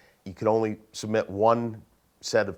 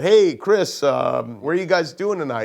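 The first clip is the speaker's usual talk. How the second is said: a mock-casual prank call voice, higher and louder; pretending to be a writer; 5 semitones higher, 4 dB louder than usual. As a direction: fake a breezy coworker calling up, lightly voiced. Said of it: "I pretended to be another one of the writers".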